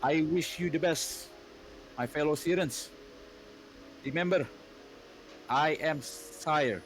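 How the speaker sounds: solemn rallying proclamation, lightly husky; husky queen's speech. Acted. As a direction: address the troops like a stern queen. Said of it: "deep, husky, female voice".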